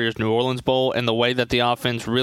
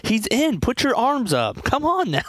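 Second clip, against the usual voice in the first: imitated yelling; 12 semitones higher than usual. Broadcast partner yelling in my ear as the play happened, imitated high-pitched yell. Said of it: "Russ is in my ear yelling".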